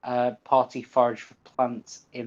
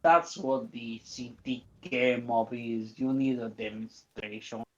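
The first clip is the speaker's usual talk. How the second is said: mock foreign accent drifting Mediterranean; softly spoken, wandering Mediterranean accent; accent turned Mediterranean; 5 dB quieter than usual. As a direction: loose Mediterranean-sounding mobster voice. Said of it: "It suddenly turned Mediterranean".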